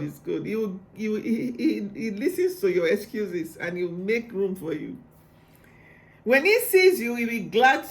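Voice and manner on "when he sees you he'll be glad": can barely contain the joy; gushing with real excitement; too excited. Real, not acted. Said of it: "I'm too excited".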